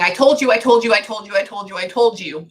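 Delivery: relayed nagging, repeated without a break; insistent repetition. Retold or imitated. Medium relays what the client keeps saying, insistent repetition. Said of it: "Keep saying that over again".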